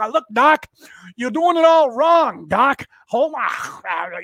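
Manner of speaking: loud, high cartoon rabbit voice, drawn out; Bugs Bunny impression. Comparing Pelosi to Bugs Bunny, loud high cartoon voice. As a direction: do Bugs Bunny chewing a carrot. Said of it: "Bugs Bunny with the carrot".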